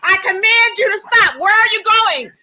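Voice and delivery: forceful shouted orders. Real, not acted. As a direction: bark orders at the officers. Sovereign citizen ordering officers loudly.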